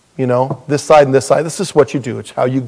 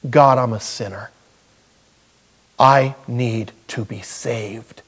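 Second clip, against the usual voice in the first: sinner's prayer. Acted. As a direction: plead humbly with God, unhurried, pausing between petitions. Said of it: "prayed a prayer like that".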